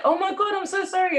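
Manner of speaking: put-on high, apologetic French accent. French woman apologising to a scared girl, French accent. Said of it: "in her French accent".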